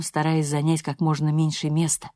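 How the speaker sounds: ordinary delivery, nothing marked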